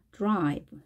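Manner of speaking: 드라이브 as English drive, light D into curled R; weak D. Shown as a demonstration. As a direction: ease off the D of 드라이브. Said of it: "드 소리를 약하게".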